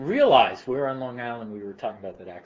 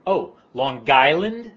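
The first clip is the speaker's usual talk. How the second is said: mocking "Long Island"; 5 semitones higher, 8 dB louder, slower than usual. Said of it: "And they would say".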